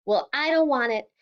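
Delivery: angry shout. Acted. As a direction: throw it back at him, furious. Daughter shouting back at father.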